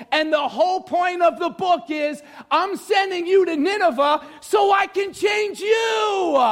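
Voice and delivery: building to a high, shouted sermon; high, stretched, emphatic preacher delivery; full-force preaching. Acted. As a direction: preach as God addressing a prophet, rising to a cry. Preaches in God's words.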